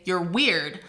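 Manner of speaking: "You're weird" with weak "You're", stressed "weird"; iambic stress. Shown as a demonstration. Teacher giving another two-word iamb, stress on "weird". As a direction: land the weight on "weird" in "You're weird". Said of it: "that would be an iamb as well".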